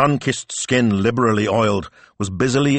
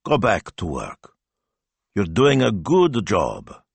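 slow, calm reassurance; slower than usual. A narrator's reading. Speranza reassures Zio about the work, calm and slow. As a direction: send them back to work calmly, slowly. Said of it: "with a strange sense of calm".

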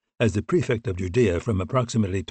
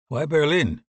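higher-pitched, lightly played British voice; British accent; 6 semitones higher, slower than usual. A narrator's reading. British officer answering his colleague's late call, in a British accent. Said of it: "pronounced British accent".

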